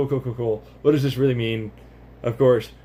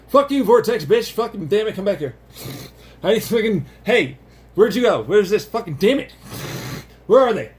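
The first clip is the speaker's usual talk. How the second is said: high, loud furious shouting; angry yelling; 8 semitones higher, 3 dB louder than usual. Acted. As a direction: yell after a runaway target. Voicing an angry chasing particle.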